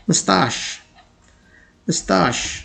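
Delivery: mustache said softly, "mus-tash" with a short first vowel; correct pronunciation. Shown as a demonstration. Teacher modelling mustache softly as mus-tash. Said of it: "the correct pronunciation is".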